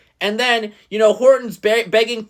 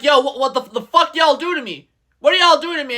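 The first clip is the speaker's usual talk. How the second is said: mock enraged robot; 4 semitones higher than usual. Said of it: "Starscream starts getting enraged".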